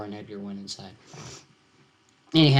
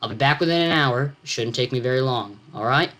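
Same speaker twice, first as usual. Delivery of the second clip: put-on talking to a child. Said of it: "as one might to a child".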